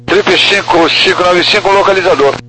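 tinny radio transmission; over walkie talkie. Real, not acted. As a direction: voice through a handheld radio. Pilot readback over the radio.

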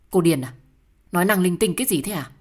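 loud, indignant challenge; angry retort. Acted. Quarrelling partner answers "Cô điên à", angry and loud. Acted quarrel, snapping back at accusation.

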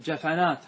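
جفنات as ja-fa-nat; three open syllables in جفنات, fa in the middle; fatha on middle letter. Shown as a demonstration. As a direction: put an "a" after the ف in جفنات. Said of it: "هذا الفتحة".

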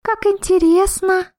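high, slow wondering voice; surprised. A narrator's reading. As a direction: marvel at it slowly. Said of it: "удивлённо посмотрела".

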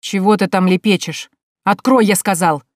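loud, impatient command; acted exasperated outburst, short of screaming; strained angry cry. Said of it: "надрывно выкрикнул Тимофей Яковлевич".

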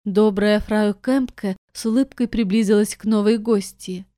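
ordinary delivery, nothing marked

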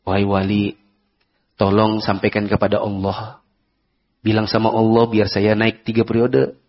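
a hint of a humble request to the wali; petitioner asking a saint. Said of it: "bedakan dengan yang gini".

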